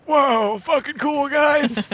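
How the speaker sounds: high amazed whoop; awestruck excitement. Acted. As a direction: gasp like a starstruck kid. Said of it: "just like".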